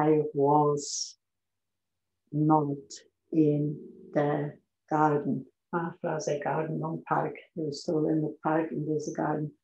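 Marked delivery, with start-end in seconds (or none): 0.1-5.5 "was" and "not" with pauses between; separated not. Shown as a demonstration. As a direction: pause before and after "not". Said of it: "Porque você não fala".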